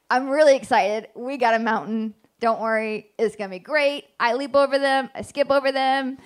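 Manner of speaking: keen and reassuring, mildly hyped; excited. Acted. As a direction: sell it with upbeat excitement. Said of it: "he comes excited".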